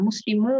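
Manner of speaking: মুসলিমু ending on a held "muu"; no noon sound. Shown as a demonstration. Teacher shows only u is heard, noon absent. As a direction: leave মুসলিমু open on u, no n. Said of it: "নুন উচ্চারণটা পাচ্ছি না".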